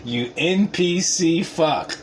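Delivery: slow mocking insult. Real, not acted. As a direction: drag out each letter slowly, with scorn. Mocking the NPC guy.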